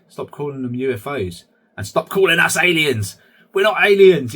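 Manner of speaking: playful protest, rising into a loud objection; mock indignant protest. Aliens objecting to humans about their name, mock indignant.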